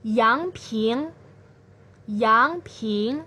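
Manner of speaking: yangping with a rising pitch; second tone name. Shown as a demonstration. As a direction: let yangping climb upward. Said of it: "nada kedua ini disebut juga dengan".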